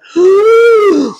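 high, loud gasp; retold gasp. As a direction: gasp as if caught out mid-reading. Acting out mid-reading alarm.

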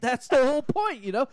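chuckling as you repeat it; laughing. Real, not acted. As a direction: laugh through the words, pitch up. Prank caller laughing at own pitch.

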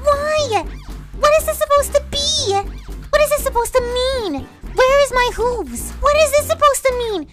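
high, loud wail of disbelief; appalled cartoon pony crying out; horrified outburst. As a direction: demand answers in rising panic. Horrified by a kissing picture.

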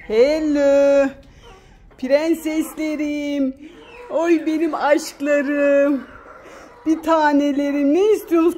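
drawn-out doting greeting; cooing to pets. Real, not acted. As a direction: coo to your darling hens. Cooing to her chickens.

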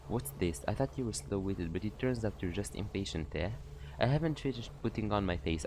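a hint of a mocking, sly warden; lightly voiced Cathy. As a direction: purr it out like a teasing jailer. Voices Cathy teasing players.

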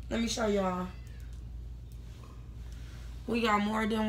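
muffled behind cloth mask; through a face mask. Real, not acted. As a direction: mouth covered by fabric. Seen 0: Woman speaking wears a cloth mask over her mouth and nose throughout.

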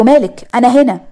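playful retold shout at her husband; retold yell. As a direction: call out his name like catching him. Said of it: "وأنا صرخت يعني بعلو صوتي".

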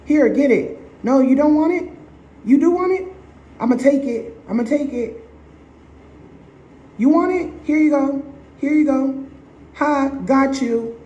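high, sing-song teasing voice; teasing a dog. Retold or imitated. Owner taunting a dog with a snack, high and teasing. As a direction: dangle it like a treat, then snatch it. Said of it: "and you're like".

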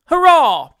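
high, loud hurrah; cheering shout. A narrator's reading. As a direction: cheer along with the roaring mob. Mob cheering at the election.

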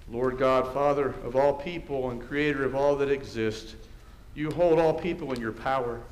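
measured, even liturgical prayer; formal prayer. Real, not acted. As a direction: lead the congregation in solemn prayer. Leads formal congregational prayer.

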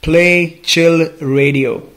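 very slow, deliberate words; slow voice command. Real, not acted. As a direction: spell it out so Siri understands. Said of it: "understands my Indian accent".

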